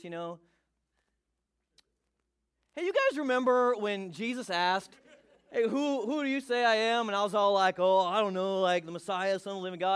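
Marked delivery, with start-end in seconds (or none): 2.7-10.0 loud, bragging storyteller; Peter. Acted. Bragging to the disciples round the fire, loud and showy. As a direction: boast loudly to your buddies with mock modesty. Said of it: "You can see him sitting around the fire".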